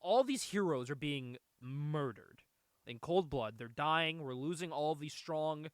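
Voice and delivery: slow, weighted, lightly acted appeal; grave plea. Frank asking Dragon for help over murdered heroes, slow grave plea. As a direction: lay out each phrase deliberately. Cousin pleading for hero's help.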